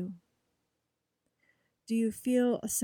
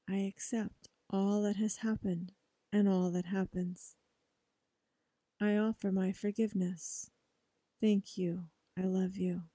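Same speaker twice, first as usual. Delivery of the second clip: quiet, measured mantra recitation; soft affirmation. Shown as a demonstration. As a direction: say each phrase softly like a prayer. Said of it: "Say it with me".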